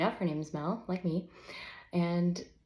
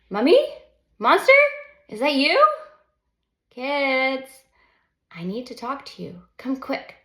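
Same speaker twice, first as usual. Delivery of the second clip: calling out; 6 semitones higher, 10 dB louder than usual. Acted. Reading book's opening, calling kids.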